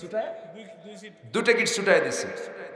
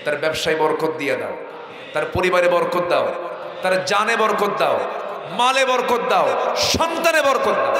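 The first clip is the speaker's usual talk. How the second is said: building prayer; 2 semitones higher, 6 dB louder than usual. Real, not acted. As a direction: pray harder with each line until crying out.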